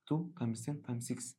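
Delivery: very slow, spelled-out dictation. Shown as a demonstration. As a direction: let them write each word. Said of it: "dictating slowly". (إملاء بطيء جدًا)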